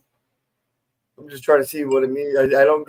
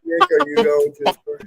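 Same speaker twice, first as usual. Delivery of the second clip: much higher, playful repeat; high mocking take. Shown as a demonstration. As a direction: squeak it out mockingly. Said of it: "Sound it out".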